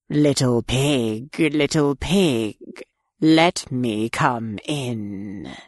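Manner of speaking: low, slow wolf; slow low coaxing wolf; big bad wolf voice. A narrator's reading. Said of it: "and said".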